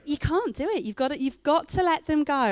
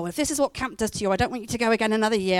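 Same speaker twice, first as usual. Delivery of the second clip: imitating mum; faster than usual. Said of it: "My mum every year would go".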